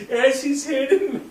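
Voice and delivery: high, loud words through real laughter; laughing. Real, not acted. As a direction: crack up while trying to go on. Cracking up while telling the story.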